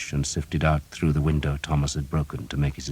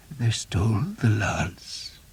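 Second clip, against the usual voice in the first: a slow, sad, breathless whisper; 6 semitones higher, 3 dB quieter, slower than usual. A narrator's reading. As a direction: grieve over the loss in a whisper. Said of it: "he said sadly".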